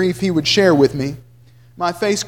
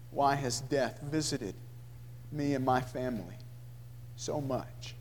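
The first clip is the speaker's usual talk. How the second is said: anguished question; 5 semitones lower, 19 dB quieter than usual. A narrator's reading. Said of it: "he asks the question".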